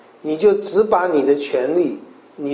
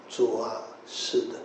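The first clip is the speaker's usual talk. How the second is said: humble assent; 5 semitones lower, 12 dB quieter, slower than usual. Acted. Woman humbly agrees.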